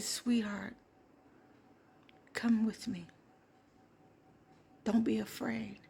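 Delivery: put-on softly coaxing, as to a scared child; gently reassuring. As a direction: soothe a frightened child, softly. Angel soothing a scared child.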